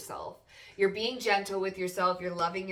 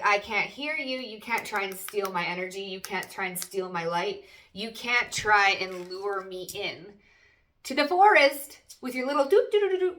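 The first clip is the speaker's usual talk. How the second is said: mock defiant self; 5 dB louder than usual. Reader voicing the querent tuning out temptations, mock defiant. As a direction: brush them off, getting shriller.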